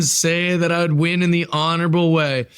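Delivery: slow, scheming villain boasts; a hint of a gloating wrestling villain; heel promo. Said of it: "I'm the heel".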